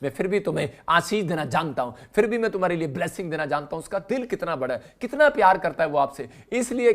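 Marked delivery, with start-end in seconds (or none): 0.0-3.8 tender voice of God. Acted. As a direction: speak to a child gently, as God. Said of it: "परमेश्वर कह रहा".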